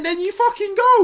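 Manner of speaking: high, exclaimed over the other speaker; heated, high-pitched outburst; loud insistence. Real, not acted. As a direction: shout over them to make the point. Heated comic overlap, insisting he leave.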